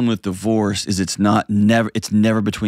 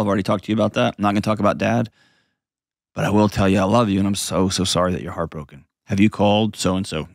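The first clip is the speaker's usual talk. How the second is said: calm reassurance. Shown as a demonstration. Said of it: "What does that sound like in real life?".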